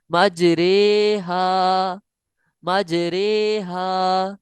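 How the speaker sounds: मजरेहा with the रे like कतरे, slow and drawn; imala recitation. Shown as a demonstration. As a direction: say मजरेहा with रे, not रा or री. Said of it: "कतरे के रे की तरह पढ़ेंगे". (मजरेहा में इमाला के साथ रे)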